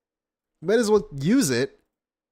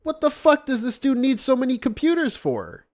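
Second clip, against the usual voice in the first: incredulous; 9 semitones higher than usual. Real, not acted. Ranting about many computers.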